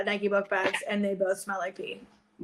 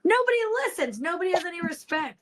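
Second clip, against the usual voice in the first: put-on higher, grumbling old woman voice; grumpy grandma; 7 semitones higher than usual. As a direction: complain like a cranky grandma. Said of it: "I sound like a freaking grandma".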